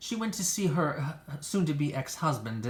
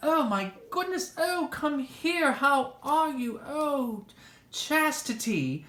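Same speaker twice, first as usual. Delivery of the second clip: gushing greeting; 11 semitones higher, slower than usual. Acted. Gushing reunion with Chastity.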